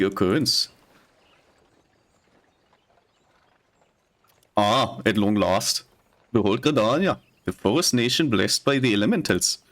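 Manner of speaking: mild Scottish lilt reading game dialogue; Scottish accent. Acted. Streamer voicing the NPC guiding the player in a Scottish accent. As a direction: read it like a chatty Scottish traveller. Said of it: "still speaking with a Scottish accent".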